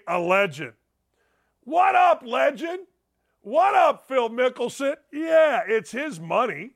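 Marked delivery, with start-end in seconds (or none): 1.6-5.0 shouted greeting. Pretend. Host hollering a hype greeting at Phil Mickelson. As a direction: call out to him like a buddy across the room.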